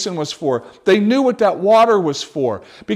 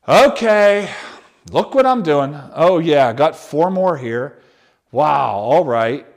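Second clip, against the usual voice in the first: hammed-up show-off, louder; self-important Jesus; 5 semitones lower, 5 dB louder than usual. Preacher mocking a showy Jesus, mock self-important. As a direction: play up a showy servant who wants credit. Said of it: "We don't see him like that".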